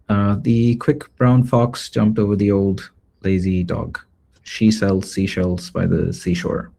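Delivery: bright, even read-aloud for a voice recording; voice sample read. Shown as a demonstration. Presenter recording a voice sample for cloning, steady read-aloud. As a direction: read it like a clean sample for the machine to copy. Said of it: "I will just do that".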